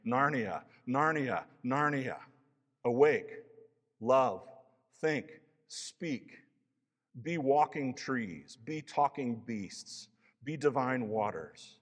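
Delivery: a lightly voiced lion calling out, slow and ringing; deep wild lion voice. Aslan wakes Narnia with a ringing, lightly voiced call. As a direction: call the world awake like a lion king. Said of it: "the deepest, wildest voice".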